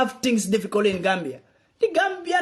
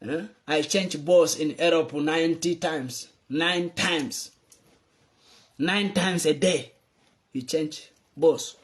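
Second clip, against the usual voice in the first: mock quote of president; 3 semitones lower, slower than usual. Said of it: "You said".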